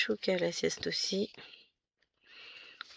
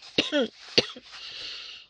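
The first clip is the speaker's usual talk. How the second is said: cough; 6 semitones higher than usual. Real, not acted.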